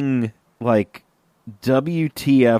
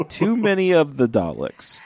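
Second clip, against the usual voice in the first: laughing; 3 semitones higher than usual. Real, not acted. Repeating the line while laughing.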